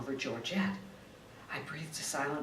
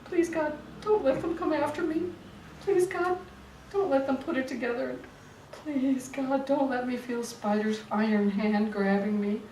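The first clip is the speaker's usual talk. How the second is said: higher, louder, frantic pleading; fleeing the booth, praying in panic; desperate prayer; 8 semitones higher, 5 dB louder than usual. Acted. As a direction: pray faster and more frantic to the end.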